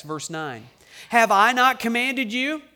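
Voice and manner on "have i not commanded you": booming rhetorical God. Acted. God's rhetorical question, raised.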